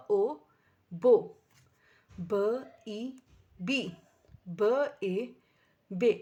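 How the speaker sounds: بو, بی, بے each built from ب plus a vowel, with a loud بو; letter, vowel, then the joined syllable; sounding out blends. Shown as a demonstration. Teacher to parents, demonstrating letter blending. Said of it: "جب ہم نے اس کو واو سے جوڑا تو ب".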